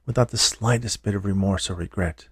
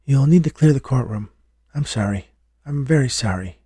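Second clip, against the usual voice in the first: gently apologetic, a touch higher; kindly bailiff; 4 semitones higher than usual. A narrator's reading. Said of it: "A kindly bailiff approaches".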